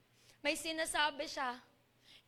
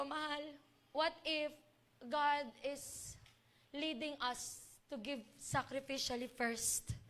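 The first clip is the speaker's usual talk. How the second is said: tender question; 3 dB quieter, slower than usual. Retold or imitated. Retold tender question to husband.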